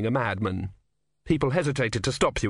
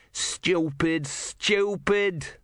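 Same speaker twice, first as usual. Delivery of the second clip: high, exasperated cry without full volume; contained narrator's shout, pitched up; 6 semitones higher, much slower than usual. A narrator's reading. Brother running, shouting to the world in general. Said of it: "Brother shouted to the world in general".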